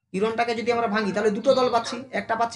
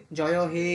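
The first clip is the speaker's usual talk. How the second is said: "হে" held long and level, lower in pitch; drawn-out ending; 4 semitones lower, slower than usual. Shown as a demonstration. Teacher pointing to the anthem's end, "হে" stretched. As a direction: hold the final "হে" in "জয় হে". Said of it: "হেটাকে আমরা টান দিই".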